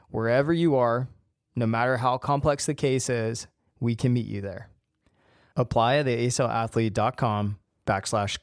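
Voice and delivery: measured scripted podcast ad read. Acted. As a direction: read the coaching promo in an even, polished way. Reads a coaching ad.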